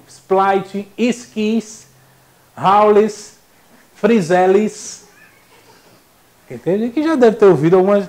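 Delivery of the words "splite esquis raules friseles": Splite, Esquis, Raules, Friseles, each set apart; popular mispronunciations. Retold or imitated. Teacher mimics how people mangle brand names, mispronounced. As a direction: list folk brand-name manglings word by word. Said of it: "ouvir o povo chamando".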